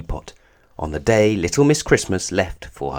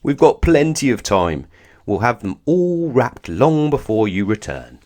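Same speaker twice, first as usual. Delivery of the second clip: booming Father Christmas; 3 semitones higher, 3 dB louder than usual. Acted. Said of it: "boomed Father Christmas".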